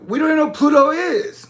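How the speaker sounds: ordinary talk, nothing marked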